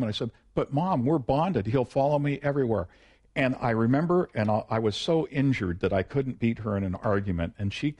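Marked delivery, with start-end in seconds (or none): 0.6-2.9 lightly voiced kid begging to keep a puppy; pleading child. Child pleading with his mother.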